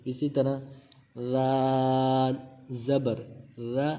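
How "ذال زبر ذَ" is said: رال as a drawn-out "dhaal", soft th as in "this"; soft dhal. Shown as a demonstration. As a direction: say را as "dha", tongue at the upper teeth, no whistle. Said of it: "سیٹی کی آواز نہیں نکالیں گے".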